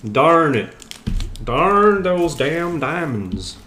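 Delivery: put-on slow, drawn-out American accent try; hammed-up American accent, slowly; an Aussie attempting a slow American accent. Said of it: "my American accent".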